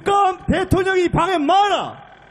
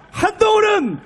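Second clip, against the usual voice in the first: shouted climax; 4 semitones higher than usual. Real, not acted. Rally climax line.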